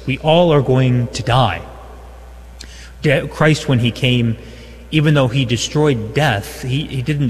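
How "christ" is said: normal talking voice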